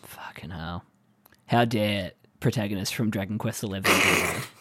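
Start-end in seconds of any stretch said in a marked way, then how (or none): 0.0-0.8 whispered, far softer; whispered curse. Real, not acted. A whispered curse at the story twist. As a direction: breathe the curse out. Reacting to boyfriend reveal.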